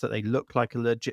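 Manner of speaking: plain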